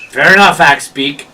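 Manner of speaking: loud, brisk acceptance; resigned gatekeeper. Acted. Gatekeeper lets Axebeak sign, loudly resigned. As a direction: accept it firmly and move on.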